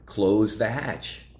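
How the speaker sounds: mock captain's order. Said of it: "Denzel's yelling over the speaker".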